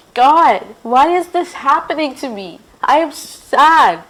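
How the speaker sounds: a touch of sorrow calling out to God; mild crying plea. Acted. Hannah praying alone in a corner, mildly tearful. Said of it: "Hannah cried".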